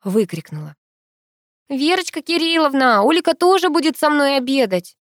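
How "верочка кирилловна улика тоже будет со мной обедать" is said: calling out loudly. A narrator's reading. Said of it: "громко выкрикнула".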